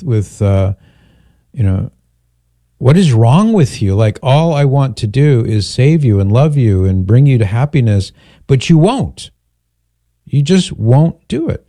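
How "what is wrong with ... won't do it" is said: exasperated plea. Retold or imitated. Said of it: "perhaps with exasperation".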